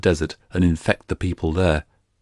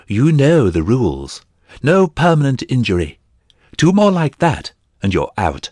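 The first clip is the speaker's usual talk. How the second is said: loud, high, stern referee's call; raised voice scolding both fighters; priest crying out; 6 semitones higher, 3 dB louder than usual. A narrator's reading. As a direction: call the fight to order from the ring. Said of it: "The priest cried".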